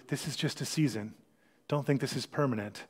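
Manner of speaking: soft, reassuring, as if God whispering; gentle hushed voice. Pretend. Pastor voicing God to worried listeners, hushed and gentle. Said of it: "God will whisper to you".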